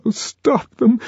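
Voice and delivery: high pleading cry of Lenina; desperate high plea; imploring. A narrator's reading. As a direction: beg them to stop. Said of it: "she implored".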